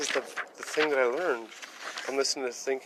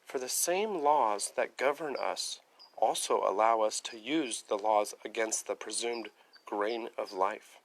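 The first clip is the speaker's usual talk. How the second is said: reading aloud; 2 semitones lower than usual. Shown as a demonstration. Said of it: "next paragraph".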